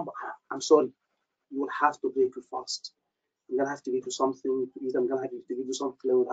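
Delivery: apologetic doctor. Retold or imitated. Doctor tells fasting patient to break fast, subdued apology. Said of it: "He said it like this".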